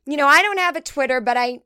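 high, gushing listener voice; mock fan gushing about the podcast; imagined fan voice. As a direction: play a gushing fan talking to her husband.

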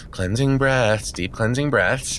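measured breathing-exercise voice; settling, deliberate mantra; self-calming. Acted. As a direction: talk yourself down, slowing as you go.

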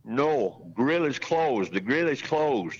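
put-on light Greek accent, insistent; a hint of an old Greek man's accent. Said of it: "my granddaddy in his Greek accent telling him".

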